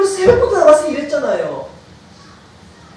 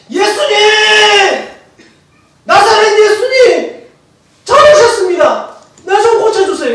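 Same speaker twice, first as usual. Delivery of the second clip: loud, high, drawn-out cries for help; shouted plea; 9 semitones higher, 7 dB louder, slower than usual. Shown as a demonstration. Blind beggar calling Jesus to heal him, shouting loudly. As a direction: cry out at full force to be heard. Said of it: "소리를 지릅니다".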